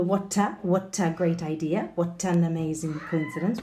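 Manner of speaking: "what a", "what an" run together as wha-ta, wha-tan; linked words. Shown as a demonstration. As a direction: join each t to the next vowel. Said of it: "effort there with the link".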